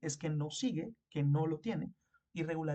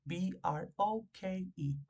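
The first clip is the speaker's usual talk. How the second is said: deletreo lento; 3 semitones higher, much slower than usual. Shown as a demonstration. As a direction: spell B R O K E slowly, letter by letter. (deletreando "broke" muy despacio para los alumnos)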